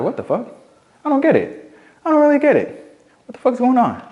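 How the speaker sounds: high, baffled squeaky disbelief; a bewildered squeal at being ignored; confused disbelief. Retold or imitated. Ignored by the girl at the frat party, high baffled squeal. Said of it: "And I was like".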